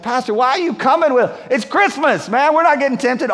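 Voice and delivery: mock protest. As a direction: protest to the pastor in disbelief. Acted objection from a churchgoer.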